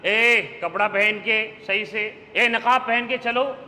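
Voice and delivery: slow, stern, rebuke; scolding. Shown as a demonstration. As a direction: make it a telling-off, not a chat. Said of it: "ایسے بولو کہ وہ ڈانٹ بنے". (آہستہ اور سخت ڈانٹ)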